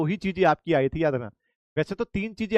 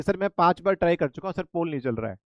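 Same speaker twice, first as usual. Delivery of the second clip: polite student complaint. Shown as a demonstration. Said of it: "आप मुझे पूरी बात बताओ".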